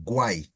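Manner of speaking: guay said as gwai, every vowel sounded; clear guay. Shown as a demonstration. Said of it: "it sounds just as, as it's written".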